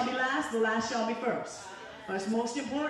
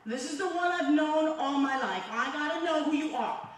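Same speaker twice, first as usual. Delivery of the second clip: raised, higher-pitched desperate plea; retold screaming out; 5 semitones higher, 3 dB louder than usual. Woman retells crying out to Jesus from the floor, mild retold scream. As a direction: re-enact a cry to God, voice pushed up. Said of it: "I'm screaming out to him".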